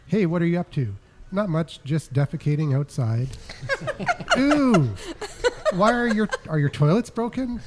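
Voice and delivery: giggling read-aloud; laughing while reading. Acted. Reading text exchange.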